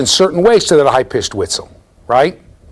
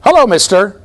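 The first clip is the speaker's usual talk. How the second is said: higher, lightly voiced bird greeting; talking mynah bird; 6 semitones higher, 4 dB louder than usual. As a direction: mimic a bird trained to greet shoppers. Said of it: "the bird says".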